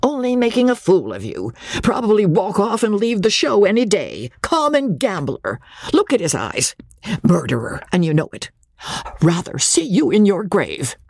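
jealous mother poisoning daughter against gambler; poisonous mother. A narrator's reading. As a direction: drip poison into her ear. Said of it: "pour poison into Magnolia's unwilling ear".

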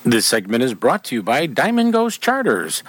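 measured radio sponsor credit; sponsor read. Acted. Radio host crediting the charter sponsor, ad read. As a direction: deliver it as a polished sponsor tag.

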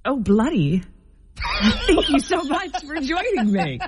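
light British queen, dissolving into laughter; half-hearted British accent with giggles; attempted British accent. Queen tries co-host's tip to welcome guests, laughing faux British. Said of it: "I keep the word bloody in mind".

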